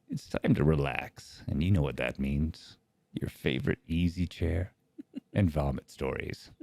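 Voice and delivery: calm it down like a relaxation ad; relaxing voice. Pretend. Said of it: "say it in a nice, relaxing voice".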